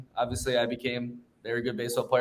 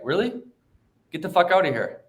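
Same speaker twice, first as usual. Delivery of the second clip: a touch of a fed-up dad, pitched higher; stern father coach; 5 semitones higher than usual. Retold or imitated. Father sending his son off the team, mildly stern dismissal. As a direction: lightly imitate a coach dismissing his kid. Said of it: "my father was the head coach".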